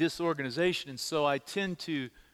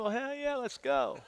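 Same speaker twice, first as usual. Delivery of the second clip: eager hell yes; 7 semitones higher than usual. Real, not acted. Eager yes to ice cream.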